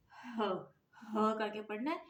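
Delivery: heavy chest-voiced "ह". Shown as a demonstration. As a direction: push "ह" out from the chest. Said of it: "भारी आवाज़ में".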